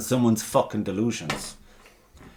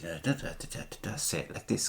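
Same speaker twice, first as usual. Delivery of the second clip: soft, quick-syllabled teaching patter; quietly mimicked language coaching; imitated Czech mother; 3 semitones lower, 11 dB quieter than usual. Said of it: "her mother would be there like".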